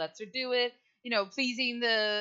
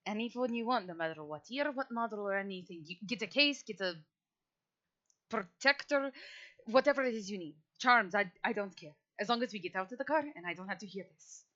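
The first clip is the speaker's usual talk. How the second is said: put-on softer, exasperated old vampire; annoyed; 6 dB quieter than usual. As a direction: grumble it, fed up with the noise. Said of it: "He's just like".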